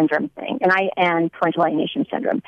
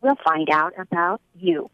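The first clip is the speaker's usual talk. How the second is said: pointed threat; much slower than usual. Retold or imitated. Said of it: "points her finger in my face".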